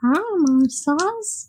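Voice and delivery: slow Elmo voice. Acted. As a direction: stretch it out as Elmo. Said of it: "I could do that voice".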